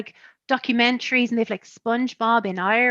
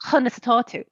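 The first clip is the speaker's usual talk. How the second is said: southeast Irish accent, in Irish; southern Irish pronunciation. Shown as a demonstration. Showing how I would say "how are you", southern Irish accent. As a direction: say it in Waterford Irish. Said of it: "with a nice kind of".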